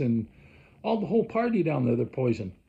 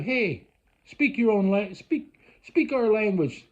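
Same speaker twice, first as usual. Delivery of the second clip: higher, slow mock scolding; mock demanding; 5 semitones higher, slower than usual. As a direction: imitate a local ordering a tourist about. Imagined locals scolding a tourist.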